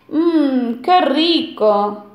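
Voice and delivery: slow, relishing yum; savoring lip-smack. Acted. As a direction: savor it like a greedy piglet. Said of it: "se relamió el cerdito".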